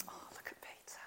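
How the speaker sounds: starts in a whisper, builds to a high laughing shout; John laughs fondly at Peter leaping into the water. Retold or imitated. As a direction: chuckle at him fondly, then cry out. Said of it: "I could just hear John going".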